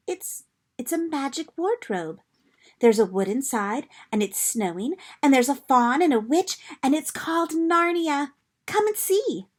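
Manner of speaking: high, eager rush; bursting to show them; excited. Acted. Lucy excitedly urging the others to come see. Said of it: "Lucy was so excited".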